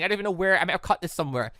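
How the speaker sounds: ordinary talk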